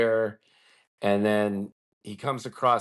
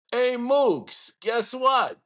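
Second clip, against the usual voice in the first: high-pitched mock yell, a touch louder; retold bartender's yell; 13 semitones higher, 3 dB louder, much slower than usual. Big Neanderthal bartender hollering at his friend, mock yell. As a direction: call out to a buddy like a big bartender. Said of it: "And he used to yell".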